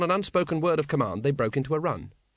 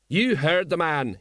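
rasped; 4 semitones higher, slower than usual. Acted. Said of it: "he rasped".

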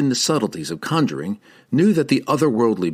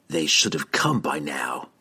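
snapping; 5 semitones lower than usual. A narrator's reading. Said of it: "he snapped at Sidney".

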